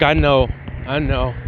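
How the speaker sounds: low, soothing reassurance; gently console, pitch dropped; comforting. Acted. Bulma consoling a crying Gohan, comforting and low. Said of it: "comforting him and shit".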